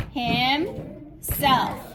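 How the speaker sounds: Himself split into two beats, each syllable hit evenly; pounding syllables. Shown as a demonstration. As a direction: pound out him and self separately. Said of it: "We're gonna pound those two syllables".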